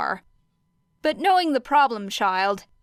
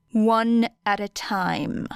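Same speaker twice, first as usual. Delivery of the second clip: slow, stern, controlled; stern command; slower than usual. Acted. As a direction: lay down the rule slowly. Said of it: "voice turned dangerously low".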